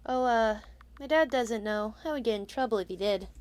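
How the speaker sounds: lightly voiced shy boy; a light hint of a timid scarecrow kid. Player voicing the scarecrow boy to the witch, timid.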